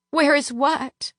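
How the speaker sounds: high, timid pretend confusion; feigned fear. A narrator's reading. Narrator faking fear to the Duke, high timid. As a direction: play the frightened innocent.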